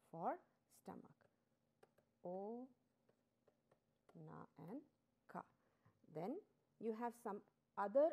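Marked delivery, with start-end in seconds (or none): 2.2-5.4 "O", "na", "ka" set apart by long pauses; syllable by syllable. Shown as a demonstration. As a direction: dictate "O, na and ka" piece by piece, softly. Breaking onaka into syllables for learners.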